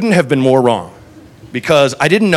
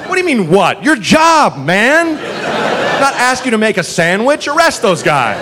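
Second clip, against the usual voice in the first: exasperated; 6 semitones higher than usual. Retold or imitated. Exasperated retort to cop.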